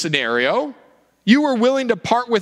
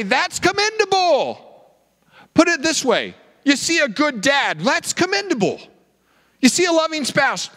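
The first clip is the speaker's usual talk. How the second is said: mock praise; 6 semitones higher than usual.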